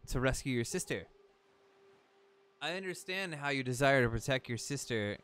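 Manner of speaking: lightly hammed-up storybook guardian; solemn talking boat. Talking boat warns Link about Ganon, mildly solemn. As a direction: read it as a grave warning, lightly acted. Reads the boat's lines aloud.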